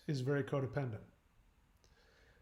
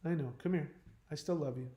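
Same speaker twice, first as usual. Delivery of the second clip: soothing mom; 6 dB quieter, faster than usual. Retold or imitated. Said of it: "Mommy says".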